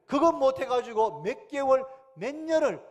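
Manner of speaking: loud, high emphatic cry; emphatic preaching. Real, not acted. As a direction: hammer home the wasted years. (목소리를 높여 강하게 외치는 설교)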